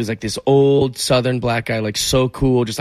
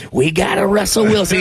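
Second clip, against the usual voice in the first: proud dad; 7 semitones higher than usual. Retold or imitated. Father bragging about daughter's boyfriend, higher and proud. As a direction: crow it like a delighted father.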